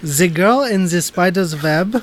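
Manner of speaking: slow, hammed-up fake Swedish accent with z for th; deliberately bad Swedish accent, almost German. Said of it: "that really bad accent I just gave".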